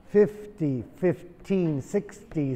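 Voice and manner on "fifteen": "fifteen" with a sounded final n; clear teen ending. Shown as a demonstration. Teacher contrasting "fifteen" with fifty. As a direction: finish "fifteen" on the n. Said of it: "igual con forty".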